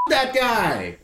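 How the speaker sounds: high-pitched call across a cinema; yelling out. Retold or imitated. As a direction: yell it out as if heckling the screen. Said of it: "I yell out".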